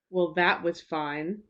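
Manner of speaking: slow, grudging "Well, that was fine."; subtext. Shown as a demonstration. Teacher showing learners a grudging reading, slow. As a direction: let the subtext leak through, slowly. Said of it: "the difference between somebody saying".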